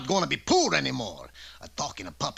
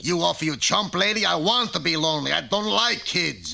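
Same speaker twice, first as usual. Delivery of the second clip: louder, scornful protest; an old grump refusing fatherhood; indignant refusal; 4 semitones higher, 3 dB louder than usual. Acted. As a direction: push the fairy's idea away. Geppetto refuses to keep the boy.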